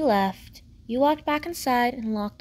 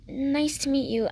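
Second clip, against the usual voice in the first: lightly raised, polite greeting; a hint of a higher character voice; lightly voiced girl; 3 semitones higher than usual. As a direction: greet a new neighbour politely. Girl greets her new neighbour.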